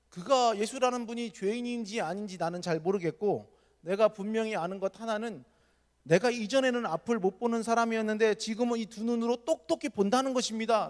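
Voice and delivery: bold answer. Retold or imitated. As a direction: stand your ground, deliberately. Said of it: "당돌하게 대답을 했어요". (느리고 당돌하게 또박또박)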